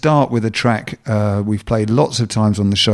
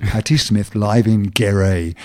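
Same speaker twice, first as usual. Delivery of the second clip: relishing it slowly; slower than usual. Real, not acted. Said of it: "I can't even believe I'm saying it".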